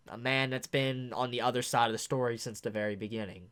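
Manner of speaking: low, soft, reflective telling; quietly honour each person one by one; subdued, moved recap. Real, not acted. Moved recap of gathered characters.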